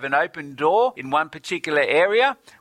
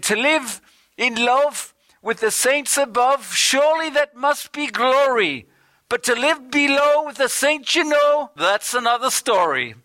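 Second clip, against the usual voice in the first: put-on Irish accent; 10 semitones higher than usual. Preacher quoting an Irish minister's saying to the congregation, Irish accent. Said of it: "do it in his Irish accent".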